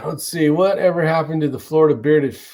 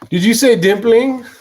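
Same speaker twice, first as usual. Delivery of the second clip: higher, louder disbelieving question; can't believe the word dimpling; incredulous; 8 semitones higher, 5 dB louder than usual. Real, not acted. Streamer shocked by the barrel price, disbelieving.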